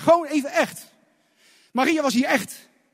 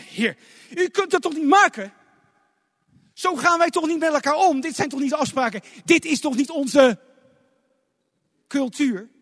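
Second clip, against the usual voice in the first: indignant reproach; 3 semitones higher than usual. Acted. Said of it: "hoe Maria zo boos, verontwaardigd was".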